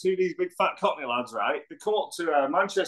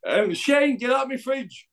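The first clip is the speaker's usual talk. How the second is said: imitating Frank; 7 semitones higher, slower than usual. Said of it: "everything you say to Frank".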